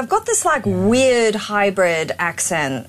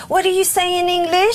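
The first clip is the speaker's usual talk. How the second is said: high-pitched put-on Spanish accent; mock Spanish accent; 9 semitones higher than usual. Mocking a celebrity's pretence, put-on Spanish accent. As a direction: imitate a fake Spaniard hunting for the English word. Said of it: "She used to have a heavy Spanish accent".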